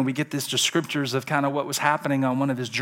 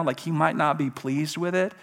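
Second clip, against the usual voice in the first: normal talking voice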